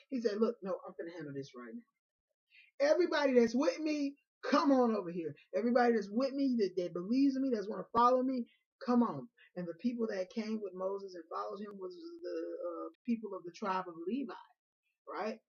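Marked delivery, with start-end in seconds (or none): 0.4-9.3 loud, high calling out to the crowd; rallying call. Retold or imitated. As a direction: summon everyone to your side. Moses rallying the loyal ones.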